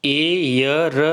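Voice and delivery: एयर said as "air", silent h; एयर, heir with no h sound; pronunciation demo. Shown as a demonstration. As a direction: model एयर like the word air. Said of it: "इसको एयर पढ़ेंगे".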